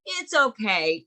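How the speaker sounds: put-on pat the words like a small child's head; mock soothing a child. Adult soothing a crying child, mock condescending hush. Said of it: "a pat, and then".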